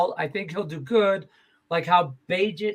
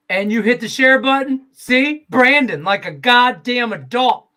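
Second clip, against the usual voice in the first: hyped praise; 7 semitones higher, 8 dB louder than usual. Real, not acted. Cheering on a listener.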